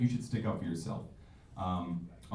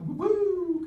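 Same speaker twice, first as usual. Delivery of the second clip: siren imitation; 5 dB louder than usual.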